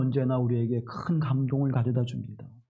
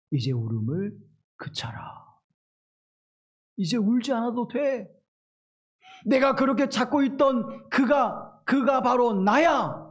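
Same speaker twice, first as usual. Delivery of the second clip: gentle comfort; 7 semitones higher than usual. Retold or imitated. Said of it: "라고 주님이 그 여인에게 말씀해 주신".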